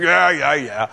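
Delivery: mock-eager cheering along; excited agreement. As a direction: punch it out, then drop off, parodying excited listeners. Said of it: "gonna jump all excited".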